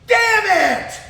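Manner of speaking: high mock yell of frustration; hammed-up wake-up curse; imitated angry curse. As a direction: blurt it like you just woke up furious. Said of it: "I'd hear her wake up and go".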